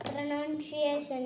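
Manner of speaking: പ്രൊനൗൺസിയേഷൻ slowly, as "pre-nan-si-ay-shun"; slow, careful word demo of പ്രൊനൗൺസിയേഷൻ; careful pronunciation. Shown as a demonstration. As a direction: draw out പ്രൊനൗൺസിയേഷൻ syllable by syllable. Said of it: "അതൊന്ന് പറഞ്ഞേ".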